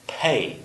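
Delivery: "pay" said slowly and clearly as a model; example word. Shown as a demonstration. Teacher modelling "pay" for learners, careful. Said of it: "for example".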